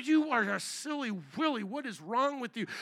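restrained, imitated telling-off at normal volume; mock angry scolding. Preacher imitating himself angry at the airport, mock scolding. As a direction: scold in mock exasperation without shouting. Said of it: "literally talking to them like that".

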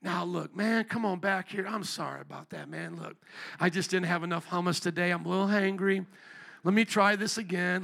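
a pretend apologetic Jesus; mock soft-selling Jesus. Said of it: "Did Jesus say".

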